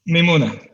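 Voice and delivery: "Mimuna" said as mee-MOO-na; "Mimuna", oo in the middle; correct pronunciation. Shown as a demonstration. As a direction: model "Mimuna" with an oo vowel. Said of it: "I'm not sure how to pronounce it".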